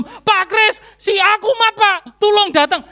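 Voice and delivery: high, loud panicked caller imitation; urgent plea. Parent phoning pastor late at night, urgent plea.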